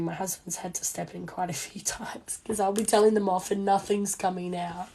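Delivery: hoarse voice giving out; losing voice. Real, not acted. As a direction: voice cracking to a whisper. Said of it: "I still don't have my voice back".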